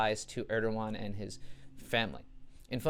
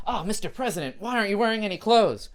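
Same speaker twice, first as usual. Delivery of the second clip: higher, louder hammed-up Putin purr; mock Putin; 9 semitones higher, 9 dB louder than usual. Putin teasing Trump in a steam bath, hammed-up and loud. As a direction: camp it up as Putin teasing a naked president.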